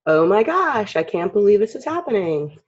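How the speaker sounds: acted amazed disbelief; astonished. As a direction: play up stunned disbelief. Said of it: "I'm more surprised".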